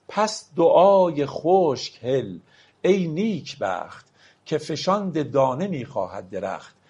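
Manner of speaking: drawn-out, weighty reading of the verse; very slow poetry recitation. Acted. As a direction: linger on each phrase like a sermon line. (دکلمهٔ بسیار کند و سنگین)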